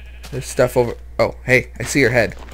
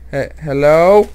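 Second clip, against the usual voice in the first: scared; 3 semitones higher, 6 dB louder than usual. Real, not acted. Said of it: "I don't sound very menacing when I'm scared like that".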